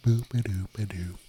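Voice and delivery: breathy whispered nonsense sound test; whispered boop. Shown as a demonstration. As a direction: whisper the boops as a mic test. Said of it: "Does this sound better or worse?".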